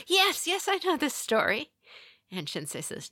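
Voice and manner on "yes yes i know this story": high, loud eager outburst; excited interjection. Retold or imitated. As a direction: pop up like an over-keen pupil. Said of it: "pops up and says".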